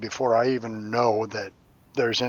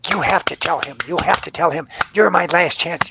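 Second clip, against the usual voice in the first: put-on pleading old woman; 6 semitones higher, 6 dB louder than usual. Old woman spirit pleading insistently.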